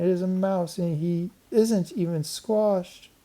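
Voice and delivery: put-on high excited girl voice; squealing with surprise. A narrator's reading. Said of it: "squealed Karen".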